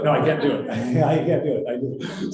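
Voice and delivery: laughing through the words; real laugh breaking in while giving up; amused, helpless protest with laughter. Real, not acted. Flustered laughing over a repeated joke.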